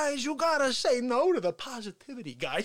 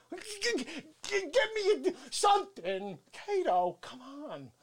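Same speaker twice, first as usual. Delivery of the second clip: usual speaking voice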